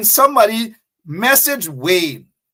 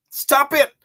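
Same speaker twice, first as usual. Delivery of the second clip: yelling; 7 semitones higher, 4 dB louder than usual. Real, not acted. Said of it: "Sorry that I'm yelling at you guys".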